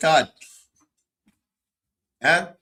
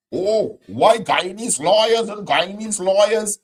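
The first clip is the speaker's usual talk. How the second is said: mocking whine; 3 semitones higher than usual. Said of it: "These is not the same people who they talking".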